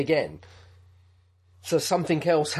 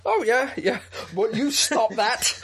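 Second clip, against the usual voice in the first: mock scolding; 7 semitones higher than usual. Real, not acted. Scolding colleague for messing about.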